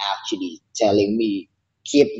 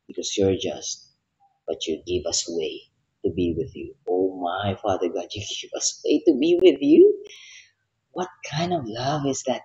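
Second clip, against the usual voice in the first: heartfelt prayer. Real, not acted. Leads a closing prayer.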